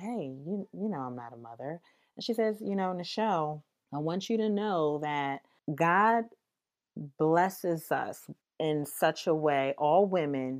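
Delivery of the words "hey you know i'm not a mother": quieter, whispered voice. Recounting what she said back to a caller, retelling a whisper. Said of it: "I whispered".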